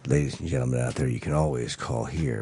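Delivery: low smooth crooner voice; smooth radio voice. Shown as a demonstration. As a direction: croon it like a soul DJ. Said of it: "Sounds like Lou Rawls".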